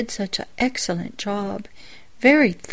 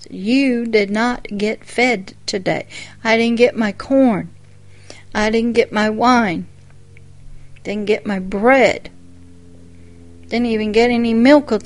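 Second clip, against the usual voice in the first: emphatic, louder list of what was missed; louder, insistent mock preaching; retold preacher's admonishment; 5 dB louder than usual. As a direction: hit each item firmly, like a radio preacher. Radio pastor scolding, retold.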